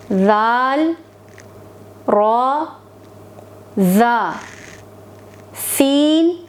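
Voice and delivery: slow letter-by-letter recitation of the alphabet; reciting Arabic letters. Shown as a demonstration. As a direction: say each letter alone, clearly, with a pause. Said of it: "आज हम सिर्फ हुरूफ की अदायगी करेंगे". (अरबी हुरूफ़ की धीमी, साफ़ अदायगी)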